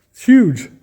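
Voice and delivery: sudden high, loud exclamation of amazement; real surprise at something big; amazed. Real, not acted. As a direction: blurt it out, genuinely taken aback. Surprised at the huge desk lamp.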